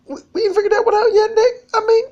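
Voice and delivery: high, loud words squeezed out through helpless laughter; laugh-cry the words, barely holding it together. Real, not acted. Breaks up mid-story.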